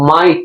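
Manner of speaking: MIGHT with a separate released T at the end; final T sounded. Shown as a demonstration. Teacher showing the ending, MIGHT with audible T. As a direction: finish MIGHT on a distinct T. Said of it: "এই টির সাউন্ডটা শেষে".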